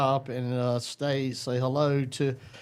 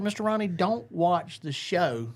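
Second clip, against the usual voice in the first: teasing warning; 4 semitones higher than usual. Retold or imitated. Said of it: "I said".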